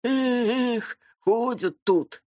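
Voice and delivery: high, very slow sighing grumble; old cleaner grumbling. Acted.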